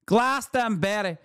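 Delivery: Glastonbury said in the mock voice, falling, no extra push; lightly mocking impression, word dropped plainly. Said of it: "my natural, organic Middle Eastern accent".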